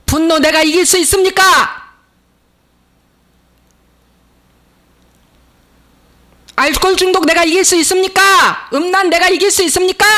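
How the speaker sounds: high, ringing challenge; impassioned high-pitched pulpit questioning; full-force preaching. Real, not acted. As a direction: fire the questions at the congregation.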